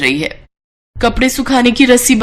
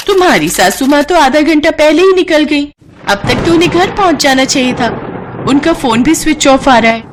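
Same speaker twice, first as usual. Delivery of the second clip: worried tailor lady; 5 semitones higher than usual. Acted. Tailor tells the daughter-in-law her mother-in-law already left, higher worried voice.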